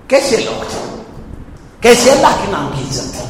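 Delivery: hushed, breathy marvel at such people; awed whisper. Real, not acted. Preacher marvels at the faithful, in an awed whisper. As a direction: drop to a whisper in wonder.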